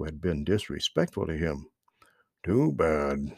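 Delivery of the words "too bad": put-on old frog whispering his disapproval. A narrator's reading. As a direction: breathe it out regretfully. Frog shakes his head soberly.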